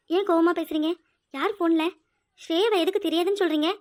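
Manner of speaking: loud, urgent questions; alarmed questioning. Acted. Wife loudly questioning husband about the phone call. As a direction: demand answers, alarmed.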